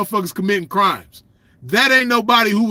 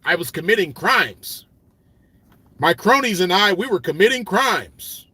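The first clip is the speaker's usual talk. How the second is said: lightly voiced prim nerd confessing crimes; a touch of a proper, square voice; mocking a nerdy poser. Imitating a lame poser to his listeners, a light prim voice. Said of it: "We don't talk like that".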